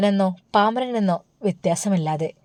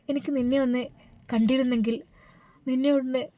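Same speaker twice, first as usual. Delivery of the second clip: high, soft, near-tearful longing; mother softly pleading to see her daughter, near tears; aching longing; 5 semitones higher, 5 dB quieter than usual. Acted. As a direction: let the voice ache with missing her.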